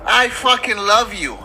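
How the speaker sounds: slow, drawn-out mock tearful declaration; imitating near tears. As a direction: draw it out as if almost crying. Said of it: "She almost crying".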